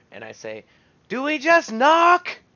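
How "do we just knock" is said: high, very loud, booming, amplified-sounding shout. Calling up to riders far overhead, magically amplified booming shout. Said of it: "Thaumaturgy to make myself louder".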